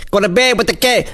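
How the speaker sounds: "Go to bed with the keg" sung out high in rhythm; sounding out words. Shown as a demonstration. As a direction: sound out "keg" like a rap draft in your head. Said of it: "sound out the words in my head".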